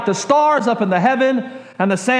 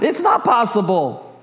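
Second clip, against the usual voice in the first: laughing disbelief; 3 semitones higher than usual. Retold or imitated. Old Sarah laughing at God's promise, laughing disbelief. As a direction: scoff it out through a laugh. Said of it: "finally Sarah herself laughs about it".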